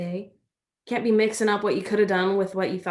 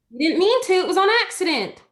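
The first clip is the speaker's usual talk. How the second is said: urgent reassurance; 10 semitones higher, 7 dB louder than usual. Acted. Girl urgently comforting guilty friend.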